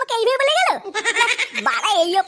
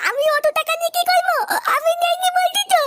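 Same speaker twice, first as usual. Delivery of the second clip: high, desperate insistence; pleading shout; 7 semitones higher than usual. Acted. A beaten boy insists to Maya he took nothing, in a high, pleading cry. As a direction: cry out your innocence, pitched high.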